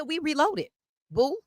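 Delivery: high sing-song taunt, pitched well up; a high teasing chant of we reloaded boo; mocking taunt. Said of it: "I said".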